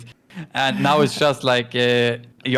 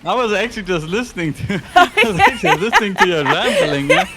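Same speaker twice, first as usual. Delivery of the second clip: laughing; 7 semitones higher, 4 dB louder than usual. Real, not acted. Laughs while owning up.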